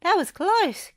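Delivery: high, loud relieved Goofy; relieved gasp. A narrator's reading. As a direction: blow out relief after a close call. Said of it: "Goofy gasped".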